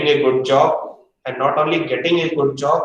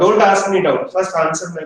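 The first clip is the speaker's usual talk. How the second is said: louder, higher, cutting the student off; stern rebuke; 3 semitones higher, 4 dB louder than usual. Real, not acted. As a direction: shut the question down firmly. Teacher cuts off student's doubt.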